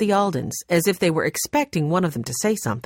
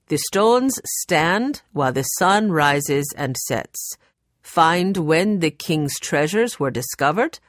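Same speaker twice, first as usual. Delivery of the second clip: reciting a riddle. A narrator's reading. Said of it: "It goes like this".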